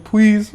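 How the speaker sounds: high "Please." with a W for the L; baby-talk please. Retold or imitated. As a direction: plead "Please." like a small child saying "pwease". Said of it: "with the W".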